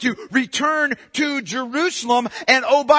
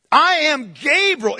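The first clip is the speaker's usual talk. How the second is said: slow, emphatic "I am Gabriel", pitched up; 4 semitones higher than usual. Acted. Angel Gabriel announcing himself to Zechariah, emphatic. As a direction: declare "I am Gabriel" with weight on each word. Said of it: "It's an emphatic statement in the Greek".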